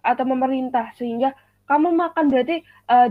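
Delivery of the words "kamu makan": "kamu makan" pitched higher, as an order; a higher-pitched instruction on "kamu makan"; imperative intonation. Shown as a demonstration. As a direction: order them to eat, "makan" held up. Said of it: "dia itu disuruh untuk makan".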